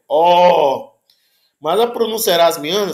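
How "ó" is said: "ó" long and open. Shown as a demonstration. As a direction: hold an open "ó". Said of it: "um ó longo e aberto".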